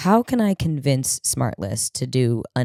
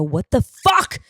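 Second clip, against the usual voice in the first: outraged disbelief; 7 semitones higher than usual. Retold or imitated. Outraged at Shane's news.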